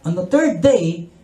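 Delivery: slow, solemn preaching; solemn sermon. Real, not acted. Preacher telling of the resurrection to the crowd, slow and solemn. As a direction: let each word land with weight.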